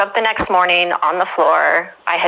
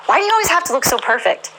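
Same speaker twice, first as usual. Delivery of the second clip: laughing quote; 7 semitones higher than usual. Retold or imitated. Quoting counselor, laughing.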